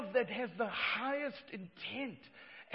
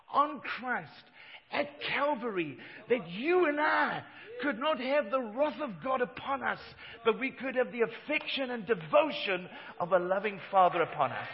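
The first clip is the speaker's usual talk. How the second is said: full-voiced sermon climax; shouted preaching; 7 dB louder than usual. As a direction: lift the congregation with a ringing shout.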